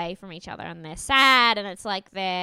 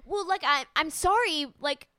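imitated flustered apology, starting high and settling; mock desperate apology; 5 semitones higher than usual. Contestant apologising over the smallest misstep, mock desperate. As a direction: stumble through a mock-panicked sorry. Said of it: "you can tell the desperation".

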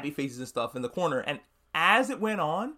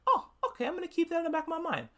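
very high, laughing, then rushed and fast; hammed-up creepy giggle turning into a quick threat; laughing mock menace; 13 semitones higher, faster than usual. Homelander answers, laughing menacingly.

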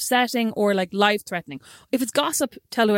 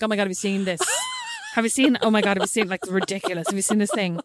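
gossipy excitement. Retold or imitated. Imitating her gossipy self.

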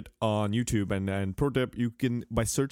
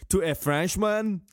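put-on indignant French accent; slower than usual. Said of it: "Thierry Henry".

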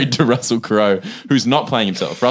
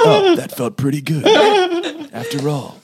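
laughing. Retold or imitated. Laughing through a quoted line.

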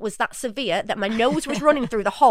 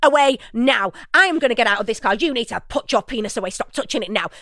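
stern professional; 4 dB louder than usual. Retold or imitated. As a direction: lay down the law, deliberate and firm. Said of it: "I was trying to be really professional".

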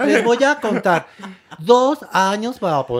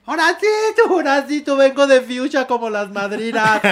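retold calling out; 6 semitones higher than usual. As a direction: call out in a high, playful wail. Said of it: "Y le grité". (grito agudo fingido, llamando de lejos)

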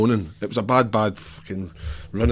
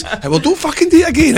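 mock angry manager; 5 dB louder than usual. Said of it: "He says".

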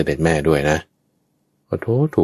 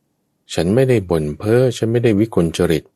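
raised earnest declaration; 6 semitones higher than usual. Acted. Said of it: "ก็กล่าวขึ้นว่า".

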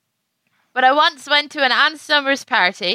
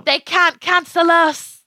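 slow seductive lover voice; 3 semitones higher, slower than usual. Pretend. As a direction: purr it like a movie lover. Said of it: "And he's like".

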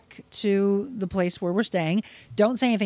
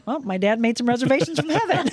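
amused punchline; 4 semitones higher than usual. Retold or imitated. Joking punchline, laughs right after.

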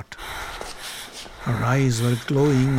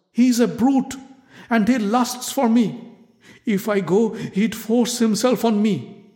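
pleading, voice rising high; fearful pleading; 7 semitones higher than usual. Acted. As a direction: beg her, growing desperate. Draupadi pleading with queen.

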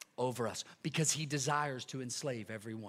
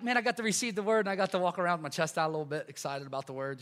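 mock cocky young man; 3 semitones higher, faster than usual. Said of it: "It wasn't like".

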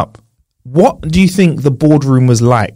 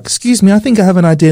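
timid intern voice; 4 semitones higher, faster than usual. Pretend. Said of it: "one twerp at the back".

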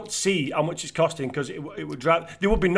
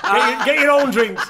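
mock stingy retort; 6 semitones higher, 5 dB louder, slower than usual. Joking stingy line.

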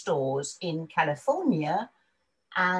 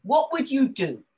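higher, louder, encouraging question; therapist's voice; 9 semitones higher, 5 dB louder than usual. Retold or imitated. Retelling her therapist's question, higher encouraging voice. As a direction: coax her gently toward a dream. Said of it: "And she said".

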